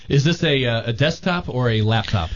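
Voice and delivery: distant, hollow, off-mic voice; speaking from far away from the microphone; inside a well. Real, not acted. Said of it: "You sound like you're in a well".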